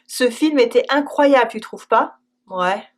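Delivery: hesitant, doubtful "Ouais"; a noncommittal "Ouais"; unsure ouais. Shown as a demonstration. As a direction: let "Ouais" sound unconvinced. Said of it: "it can also mean, "I'm not sure".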